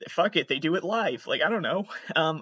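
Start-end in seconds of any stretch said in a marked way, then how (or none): 0.1-1.3 much higher, naive breezy voice; lightly voiced naive younger self; mocking younger self. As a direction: parody your clueless past self. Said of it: "I was like".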